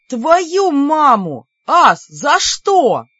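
loud, high and drawn out slowly in pain; pained outraged yell. Acted. Бер, head splitting, yelling at Ас, slow pained yell. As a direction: wail it while clutching the aching temple. Hurt brother cries out in pain.

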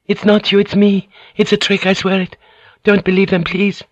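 very high, desperate begging; desperate pleading. Acted. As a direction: beg him with everything. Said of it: "she said, and grabbed his sword".

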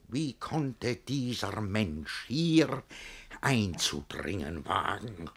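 soft, very slow dark musing; brooding aside. Acted. Master muttering about the intruding young man, soft and slow. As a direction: sink into suspicion.

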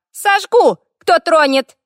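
high, loud, creaky threat; threatening fire elemental. A narrator's reading. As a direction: shriek a warning as the tiny spirit. (пронзительная угроза элементали)

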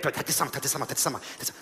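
quick quiet repeating, fading; muttered rehearsal. Shown as a demonstration. Comedian drilling the reply line quietly. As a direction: drill the phrase under your breath. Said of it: "Över däck".

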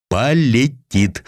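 «Полетит» drawn out slowly, every syllable savored, falling at the end; «Полетит» stretched long and tasted, syllable by syllable; savoring each syllable. Acted. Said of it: "смакуя каждый слог".

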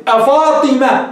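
أفاطمة drawn out like a verse; slow recited call. Shown as a demonstration. Teacher reciting a line from Imru' al-Qays. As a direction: recite أفاطمة slowly as poetry. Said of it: "امرئ القيس إيش قال في معلقته".

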